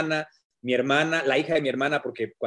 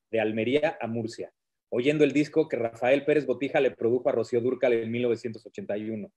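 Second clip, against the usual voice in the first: reading aloud; 3 semitones lower than usual. Acted. Reads his book aloud.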